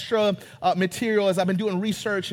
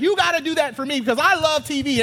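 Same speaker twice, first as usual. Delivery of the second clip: put-on eager kid; 5 semitones higher, faster than usual. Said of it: "And he's like".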